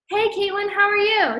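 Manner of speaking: high, chirpy, stilted hey Caitlin; mock an awkward scripted hello; stiff overly formal greeting. Mocking how nobody greets a friend, high and stilted. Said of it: "you go up to somebody and you're like".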